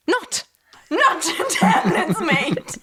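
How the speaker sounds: laughing. Retold or imitated. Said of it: "looked up and was like".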